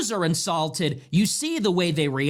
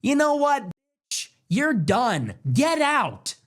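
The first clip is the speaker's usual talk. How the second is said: higher-pitched, forceful send-off; angry dismissal; 4 semitones higher, slower than usual. Acted. Americans standing up to people like this, angry dismissal. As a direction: throw them out with finality.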